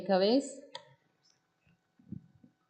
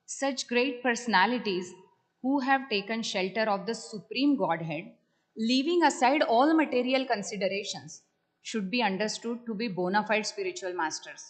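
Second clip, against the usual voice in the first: emphatic scripture reading, raised then settling; reading aloud. Real, not acted. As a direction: read the passage out with firm emphasis. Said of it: "I'm just gonna read".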